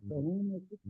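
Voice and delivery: audio dropping out; suddenly muffled censor. Real, not acted. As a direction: voice cutting out on a bad line. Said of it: "आवाज़ नहीं आ रही।".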